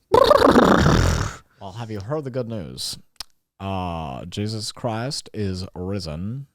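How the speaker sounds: nervous vampire turning evangelist to a horse; evangelist preaching. Pretend. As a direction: preach the good news slowly. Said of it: "I got nervous".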